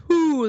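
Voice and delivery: "whoo" down in speaking range; low whoo. Shown as a demonstration. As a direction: keep the "whoo" down in chest voice. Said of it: "that's down there".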